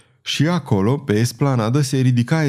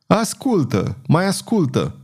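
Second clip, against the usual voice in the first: through clenched teeth; 8 semitones higher than usual. A narrator's reading. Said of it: "rosti printre dinți Roveni".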